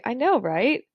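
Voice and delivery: "right" lifted in a rise at the end; questioning rising tone. Shown as a demonstration. Teacher shows learners how people say "right", questioning rise. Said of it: "a rising pitch indicates a question".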